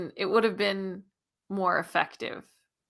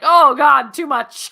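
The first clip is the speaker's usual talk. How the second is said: overwhelmed exclamation; 7 semitones higher, 15 dB louder, slower than usual. Retold or imitated. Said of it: "you're like".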